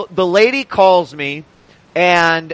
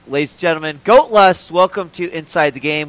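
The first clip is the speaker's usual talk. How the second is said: announcer intro. Acted. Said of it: "say it like I just answered the phone".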